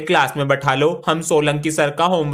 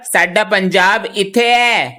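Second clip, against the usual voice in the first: put-on Punjabi accent; 4 semitones higher, 4 dB louder, slower than usual. Student answers in Punjabi.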